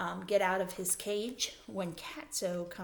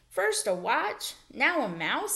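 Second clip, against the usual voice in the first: dramatic disbelief; 5 semitones higher, 4 dB louder, slower than usual. A narrator's reading. Camper reacts to thefts.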